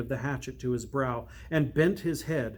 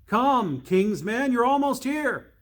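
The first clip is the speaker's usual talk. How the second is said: new voices; 8 semitones higher, 5 dB louder than usual. Acted. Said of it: "These were new voices".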